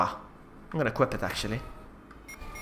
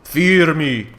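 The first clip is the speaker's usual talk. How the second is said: wild unhinged ranting; 3 semitones higher, 11 dB louder than usual. Acted. Boasting with flamethrower.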